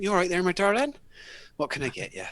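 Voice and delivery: high, loud Lincolnshire barmaid "my darling". Retold or imitated. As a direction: sing it like a cheery pub waitress from Lincolnshire. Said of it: "she went".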